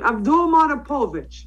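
Abdul Manapovich said in a light put-on Russian accent; playful Russian accent on the name; mock Russian accent. Shown as a demonstration. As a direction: roll out "Abdul Manapovich" like a Russian would, half joking. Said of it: "my Russian accent could".

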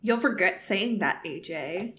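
whispering. Acted. Inessa leaving in tears after Ajax's rebuke, hushed. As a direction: murmur the threat, sinking away. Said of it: "not without whispering".

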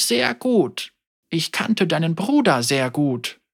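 a hint of a grieving elder speaking frankly; old woman Ying. Elder Ying tells Yasuo she holds a grudge, gently voiced.

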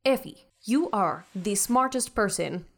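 measured, self-assured ship's mind; a hint of haughty superiority; lightly voiced imperious Beth. Beth schooling the crew on the bridge, lightly haughty.

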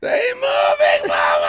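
host reprising the prank caller's cry; mock wail. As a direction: yell it like the grieving caller.

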